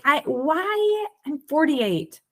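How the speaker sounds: high, amazed disbelief with a laugh; incredulous self-questioning; stunned realization. Retold or imitated. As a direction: marvel at your own delay. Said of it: "And I'm like".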